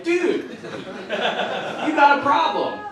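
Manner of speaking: slow mock lecture.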